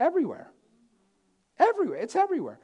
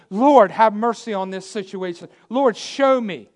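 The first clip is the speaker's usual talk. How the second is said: crying out in prayer; 5 dB louder than usual. Acted. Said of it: "When you presently cry out to God".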